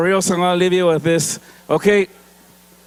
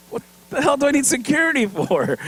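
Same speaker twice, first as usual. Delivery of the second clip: higher, laughing at the whole idea; laughing scoff; 8 semitones higher than usual. Retold or imitated. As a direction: brush it off with a laugh. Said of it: "And I start laughing".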